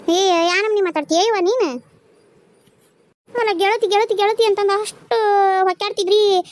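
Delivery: loud, indignant telling-off; angry scolding. Acted. Woman scolds friend for refusing to phone, angry loud voice. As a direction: give her a piece of your mind.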